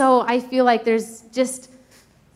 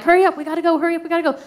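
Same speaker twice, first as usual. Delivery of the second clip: rushing mom; 7 semitones higher, much faster than usual. Retold or imitated. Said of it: "I'm like".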